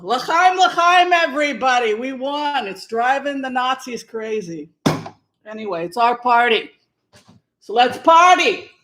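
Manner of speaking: high, excited mock cheer; party-loving caricature. Comic stays in character at a party, hammed-up whoops.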